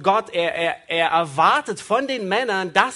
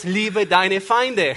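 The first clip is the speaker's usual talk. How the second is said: slow command; much slower than usual. Acted. Interpreter slows the command.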